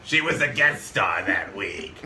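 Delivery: put-on slow, bitter old smoker lady; smoker's voice. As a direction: drawl it out like a jaded old star. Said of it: "that smoker's voice".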